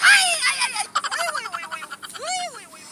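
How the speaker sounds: high squealing "aai, ui" of pain; hammed-up pain squeals; pained whimpers. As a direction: moan like the ball still stings. Father moaning in pain.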